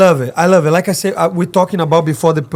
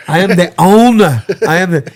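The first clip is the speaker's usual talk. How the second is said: Conor McGregor impression; 4 dB louder than usual. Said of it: "he does good".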